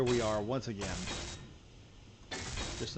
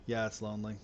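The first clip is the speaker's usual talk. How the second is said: put-on sad boy. Shown as a demonstration. Streamer joking about space loneliness, mopey sad boy voice. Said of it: "sad boy noises".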